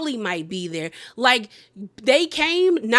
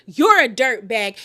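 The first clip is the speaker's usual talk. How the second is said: loud mock yell; louder insult; 5 dB louder than usual. Danielle yelling at Jennifer after the push, mock yell. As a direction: shout it at her. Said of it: "Jennifer pushes her".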